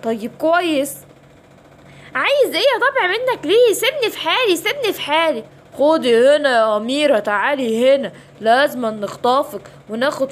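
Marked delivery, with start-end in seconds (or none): 2.2-5.4 frightened princess. Acted. Princess cries out at hyena.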